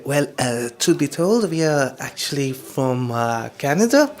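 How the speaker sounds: hesitant, lightly put-on French accent. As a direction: imitate French-accented English, haltingly. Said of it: "that's a bit of a French accent".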